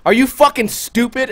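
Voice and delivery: retold cop's insult; imitating angry cop. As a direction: sneer it like a rude cop. Cop yelling at narrator.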